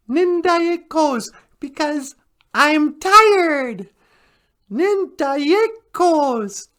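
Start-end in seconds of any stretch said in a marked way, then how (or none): 4.7-6.7 sleepy drawl. Pretend. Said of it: "I am tired".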